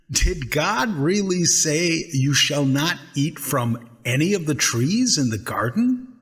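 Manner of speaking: tempting snake slyly questioning. Acted. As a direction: coax her like a scheming snake.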